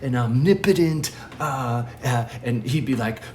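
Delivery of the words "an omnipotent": raised, impatient protest to a friend; mildly exasperated. Retold or imitated. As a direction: push back as if he is being obtuse. Retold debate, exasperated with friend.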